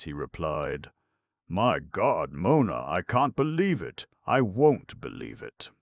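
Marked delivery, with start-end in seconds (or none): 1.5-5.7 higher, louder, shaken protest; a man refusing bad news, voice jumping up; distraught disbelief. A narrator's reading. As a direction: Sid reacting to Mona's news, distraught and louder. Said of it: "hardly recognized the usually smooth and gentle tones".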